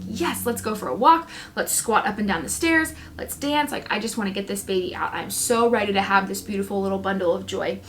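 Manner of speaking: retold eagerness, lightly animated; excited. Expectant mom eager to get the baby out, excited. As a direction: recount being eager and raring to go. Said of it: "I was so excited".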